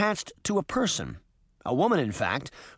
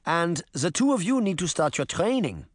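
instructing granny; 3 semitones higher than usual. Acted.

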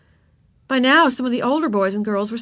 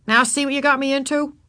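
higher, mildly cross complaint; cross boy; 7 semitones higher than usual. A narrator's reading. Boy blaming the girl in the mud, mildly cross. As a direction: scold with a touch of annoyance. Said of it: "he said crossly".

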